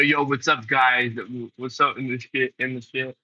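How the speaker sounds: words pushed out through a burp; talking while burping. Shown as a demonstration. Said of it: "I'll get a bottle of Pepsi real quick and I'll demonstrate".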